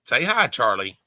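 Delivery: fast, laughing through it; laughing pet talk. Real, not acted. Urging the dog to say hi, laughing. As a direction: giggle while coaxing the dog.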